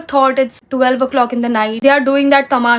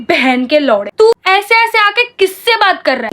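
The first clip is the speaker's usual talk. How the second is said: raised, heated swearing at him; retold angry outburst; 6 semitones higher than usual. Girl defending her mom, swearing at the guy angrily. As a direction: snap at the guy confronting mom. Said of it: "मैं बोली".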